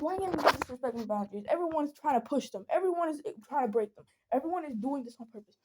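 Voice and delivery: mild mock yell, agitated; retold angry yelling. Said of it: "I was yelling so hard".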